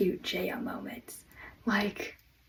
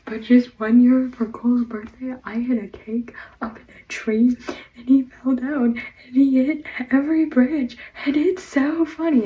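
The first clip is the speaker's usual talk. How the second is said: high, loud, giggly confession; Jay giggling; 4 semitones higher, 9 dB louder than usual. Retold or imitated. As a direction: blurt it out through suppressed laughter. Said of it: "And he's like".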